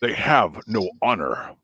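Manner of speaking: low, slow Klingon warrior; deep, measured disapproval; Worf. Acted. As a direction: pronounce it low like a solemn warrior. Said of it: "but Worf is".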